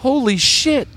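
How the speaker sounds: surprised. Real, not acted. Reacting to a play.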